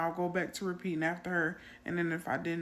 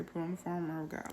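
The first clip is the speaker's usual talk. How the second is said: fast, softer mumbled repeat; quiet echo; 5 dB quieter, much faster than usual. Retold or imitated. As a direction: mumble it back softly and quickly. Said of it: "I say, like that".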